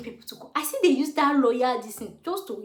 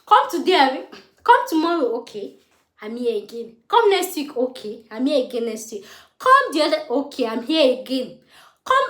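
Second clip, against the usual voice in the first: mocking staff excuses; 6 dB louder than usual. Telling viewers how staff kept sending her away, a mocking singsong. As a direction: bounce the staff's come tomorrow back at them. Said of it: "so that they will not be like".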